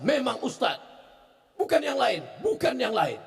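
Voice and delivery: insistent patient. Retold or imitated.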